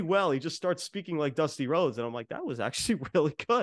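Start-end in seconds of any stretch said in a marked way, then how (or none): 2.3-3.6 laughing. Real, not acted. Laughs at the impression.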